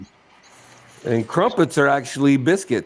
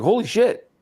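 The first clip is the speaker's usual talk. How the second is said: a light mock "Holy shit", pitched higher; imitating a startled friend; 8 semitones higher than usual. Retelling a friend's phone reaction, mild mock alarm. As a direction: play the friend's surprise, lightly. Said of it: "He's like".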